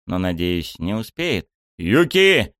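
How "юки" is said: loud high call. A narrator's reading. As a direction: call her name. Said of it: "окрикнул я принцессу". (окрикнул)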